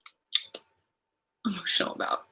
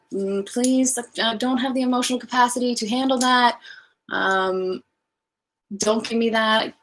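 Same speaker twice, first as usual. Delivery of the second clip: raised, mildly pleading protest; retold pleading refusal; 2 semitones higher than usual. Singer replaying her answer to an unwanted confession, pleading protest.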